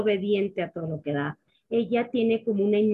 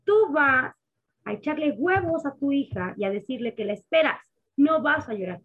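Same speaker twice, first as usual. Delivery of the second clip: firm nurse; 4 semitones higher than usual. Retold or imitated. Nurses telling the mother not to cry, lightly firm. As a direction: give the orders like the nurses did. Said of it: "me acordé de lo que me dijeron las enfermeras".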